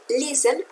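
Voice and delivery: "listen" stressed on its first syllable, LIS-ten. Shown as a demonstration. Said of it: "está en la primera sílaba". ("listen" con acento en la primera sílaba)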